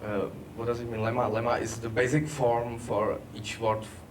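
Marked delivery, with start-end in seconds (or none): none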